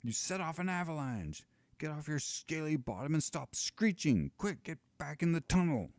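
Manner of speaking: a giant roaring at his dragon; bellowing giant. Acted. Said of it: "bellows the giant".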